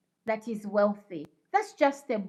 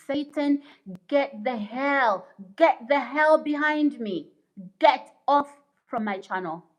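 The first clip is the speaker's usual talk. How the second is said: rebuking Satan. Real, not acted. Streamer ordering Satan off her channel, forceful rebuke.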